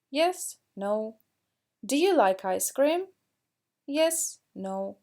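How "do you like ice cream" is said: teacher modelling rising intonation for students; rising question tune. Shown as a demonstration. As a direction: pitch climbs on "ice cream?". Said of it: "we need to raise our intonation".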